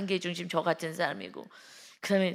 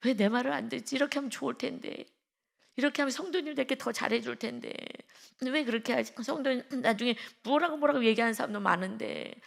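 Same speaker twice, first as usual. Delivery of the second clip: higher-pitched exasperated grumbling; mildly angry complaint; 4 semitones higher than usual. Acted. Preacher replays her complaints about her husband, mildly exasperated. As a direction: reenact fretful annoyance without shouting. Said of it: "제가 남편한테 그렇게 화가 났어요".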